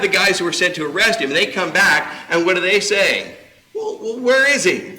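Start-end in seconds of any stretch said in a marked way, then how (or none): 3.7-4.9 mock demanding priest.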